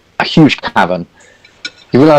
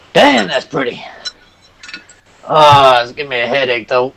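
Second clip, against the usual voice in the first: awed Hercule; 4 semitones higher than usual. Acted. Hercule squints at the sun.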